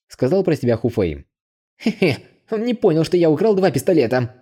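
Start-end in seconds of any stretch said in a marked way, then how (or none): 1.8-4.3 much higher, snide heh-heh; smug snicker at the fooled guest; snide chuckle. A narrator's reading. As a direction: gloat in secret. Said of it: "В мыслях ехидно смеялся".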